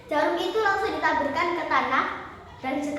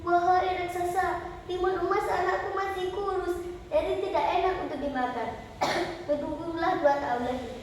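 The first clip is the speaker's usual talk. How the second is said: pleading mother; 2 semitones higher than usual. Acted.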